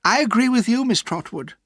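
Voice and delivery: a touch of fake sweetness; falsely sweet. A narrator's reading. Miss Murdstone agrees with the aunt, falsely sweet. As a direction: smile while speaking, not meaning it. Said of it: "smiling falsely".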